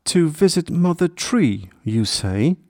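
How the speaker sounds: high-pitched, surprised echo; intrigued, pitch dropping at the end; curious. A narrator's reading. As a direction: repeat it back with curiosity, starting high. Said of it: "The giant deer got curious".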